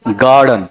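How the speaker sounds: गार्डन with a strong, long गार and a falling, light second syllable; trochaic stress. Shown as a demonstration. Teacher demonstrates a trochee, गार्डन stressed on the first syllable. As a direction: hit गार, let डन drop. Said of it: "बताओ क्या होना चाहिए?".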